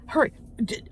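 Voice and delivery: breathless unvoiced hurry; urgent whisper. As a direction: hiss the warning. Shoppers fleeing from Stacy.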